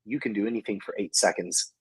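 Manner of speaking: soft, low retelling of a whisper; retold whisper. Wife encouraging injured competitor before the last division, retold whisper. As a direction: lightly imitate someone's quiet words in your ear. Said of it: "whispered in my ear".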